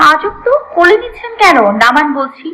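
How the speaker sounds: indignant, high-pitched protest at first; angry grumbling. Acted. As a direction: grumble crossly, demanding to be let go. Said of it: "রাগে গজগজ করে বলল ইনান". (রাগে গজগজ করে)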